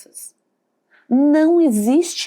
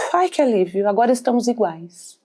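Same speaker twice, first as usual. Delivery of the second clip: cold, accusatory voice; faster than usual. Acted. Envious person relieved the other has fallen, cold and accusatory. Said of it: "com uma voz".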